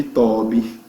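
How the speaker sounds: "to be" said as TAW-bee, open O; slow wrong "to be", first syllable "taw"; wrong pronunciation. Retold or imitated. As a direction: mispronounce "to be" like the name Toby with an open vowel. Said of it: "Tem alguns professores que chamam de".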